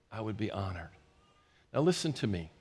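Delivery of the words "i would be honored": again hushed and low, settled and sure; honored reverence. Retold or imitated. Pastor repeating his answer to God, hushed. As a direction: let it sink in quietly. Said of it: "I bowed and I said".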